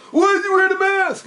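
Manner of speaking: high, loud movie-henchman yell; high-pitched mock shout; retold yell. Retold movie guy yelling.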